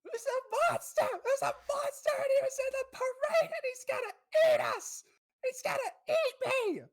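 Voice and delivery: put-on very high, loud panicked kid shouting; sobbing child screaming about a monster; hysterical child. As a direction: shriek it like a terrified little boy. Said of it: "he's just pointing".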